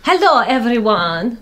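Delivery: shaky attempt at French accent; crappy French accent. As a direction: greet them in bad fake French. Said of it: "the speaker's crappy French".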